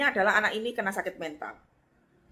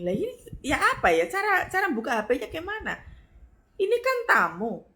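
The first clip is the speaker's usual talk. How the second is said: puzzled musing; 8 semitones higher than usual. Retold or imitated. Her own inner puzzlement.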